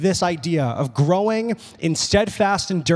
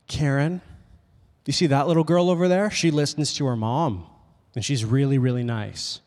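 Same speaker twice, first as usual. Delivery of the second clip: pointed mom; 4 semitones lower than usual. Retold or imitated. Mom pointing out a better-behaved girl to Karen, low pointed voice. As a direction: lightly imitate a mother's measured lecture. Mother pointedly comparing daughter, quoted.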